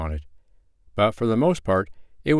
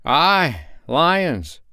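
a touch of solemn gravity, higher; solemn repeat; 8 semitones higher, 3 dB louder than usual. Acted. Man solemnly repeats the warning to the travelers. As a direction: confirm it gravely. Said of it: "repeated the man solemnly".

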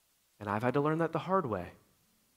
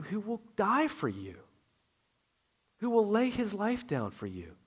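impassioned plea; 5 semitones higher than usual. Real, not acted. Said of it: "impassioned plea".

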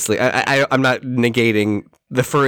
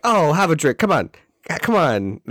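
lightly voiced jovial dad, a bit higher; dad at a wedding; 5 semitones higher than usual. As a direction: coax him to drink like a cheery uncle. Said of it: "very dad at a wedding energy".

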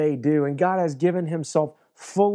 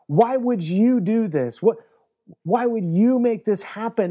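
blaming plea; 4 semitones higher than usual. Retold or imitated. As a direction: whine at God as if he let you down. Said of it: "he almost blames God".

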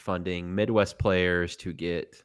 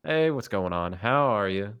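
casual greeting in a light Southern accent. Shown as a demonstration. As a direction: say hello with a slight Southern twang. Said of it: "I'll bring the accents".

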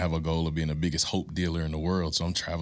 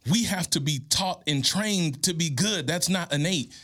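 impassioned preaching; 9 semitones higher than usual. Real, not acted. Urging a grieving single mom, high and impassioned. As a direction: pitch climbs high, preacher fervor.

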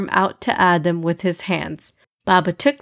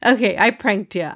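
playful; 2 semitones higher than usual. Acted. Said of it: "Amina said playfully".

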